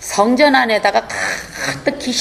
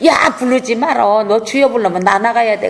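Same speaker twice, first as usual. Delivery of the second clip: voicing the demon; 3 semitones higher than usual. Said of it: "귀신이 안에서".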